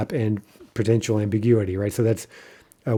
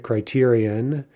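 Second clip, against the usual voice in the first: slow model word; slower than usual. Shown as a demonstration. Teacher repeating a Greek example slowly. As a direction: say Criterion slowly and clearly. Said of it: "A Greek example would be criterion".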